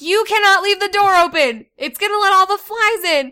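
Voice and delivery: high, loud scold; scolding mom. Retold or imitated. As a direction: tell him off sharply.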